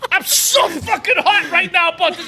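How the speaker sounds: worked-up, high-pitched venting; red-faced anger. Real, not acted. Fan has stewed all weekend, red-faced anger. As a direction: burst out with a weekend of pent-up rage. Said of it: "you're red in the face".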